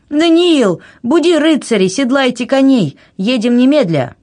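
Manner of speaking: high, agitated orders; urgent command. A narrator's reading. Anna ordering Daniil to ready horses at once, urgent. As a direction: call out urgently, pitch far up.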